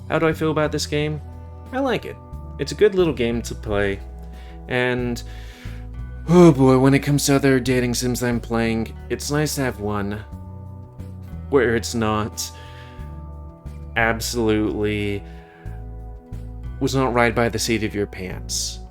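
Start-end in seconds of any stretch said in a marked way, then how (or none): none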